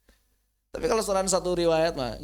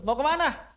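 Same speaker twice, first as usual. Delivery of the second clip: "Mau kemana" high and loud, falling off at the end; "Mau kemana" as an everyday question; natural question tune; 9 semitones higher, 5 dB louder than usual. Shown as a demonstration. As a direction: ask "Mau kemana" spontaneously. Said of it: "Kalau mau nanya itu".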